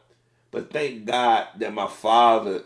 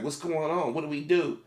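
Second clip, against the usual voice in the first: higher, mildly anxious retelling; mock a worried mother's questions, pitched up; imitating scared mother; 5 semitones higher, 3 dB quieter than usual. Mother in a pulled-over car, mildly scared. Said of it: "My mother was scared".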